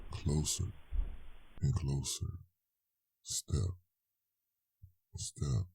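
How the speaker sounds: soft, drawn-out, suspenseful; hushed creeping. Acted. Narrator drawing the haunt near, hushed. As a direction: let it creep in closer and closer.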